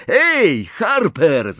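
high, loud hail; urgent cry to stop a rival; desperate call. A narrator's reading. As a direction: shout after him in desperation. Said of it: "zawołał w rozpaczy Harry".

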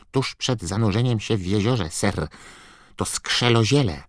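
high, squeaky elf voice; Dobby house-elf voice. A narrator's reading. Dobby explaining. (wysoki, piskliwy głos skrzata)

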